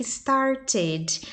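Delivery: slow "started" with a sounded "-ed" ending; "started" drawn out, the final E clearly voiced; ED pronounced as syllable. Shown as a demonstration. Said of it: "A gente só fala o E se antes do E tiver".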